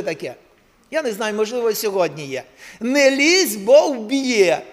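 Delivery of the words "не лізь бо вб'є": loud, higher warning; warning paraphrased. Retold or imitated. Preacher restating the sign's warning, loud and sharp. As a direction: bark the warning to the crowd. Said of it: "і так написано".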